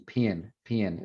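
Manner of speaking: "pin" said with the same i vowel for pen and pin; Southern merger, "pin" for both; merged vowel. Shown as a demonstration. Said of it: "pen and pin are the same thing".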